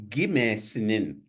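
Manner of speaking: gimesnin with a firm, clear G at the start; stress on the G. Shown as a demonstration. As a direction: hit the G in gimesnin. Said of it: "emphasis on a G".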